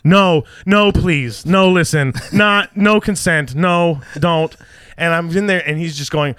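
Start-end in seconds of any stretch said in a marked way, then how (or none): 0.0-4.5 mock pleading. Wife begging the salesman at the door, mock pleading. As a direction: beg him to stop, hammed-up. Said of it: "basically beg against fucking assault".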